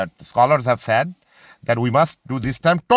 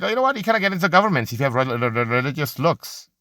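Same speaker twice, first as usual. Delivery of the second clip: pitched way up, rushed and sugary; mock official; faster than usual. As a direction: parody the polite official shutting you out. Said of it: "they indirectly be like".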